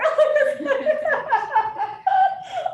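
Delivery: big high burst of laughter; real laughter at the memory; loud high laugh. Real, not acted.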